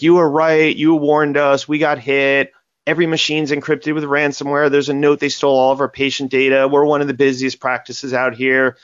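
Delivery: mock panicked wail that fades toward the end; retold hysterical crying. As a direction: echo her distress, not real tears. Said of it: "she's literally crying hysterically".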